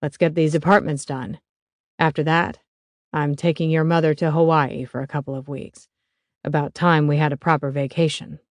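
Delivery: a lightly voiced older father. Stan keeps speaking.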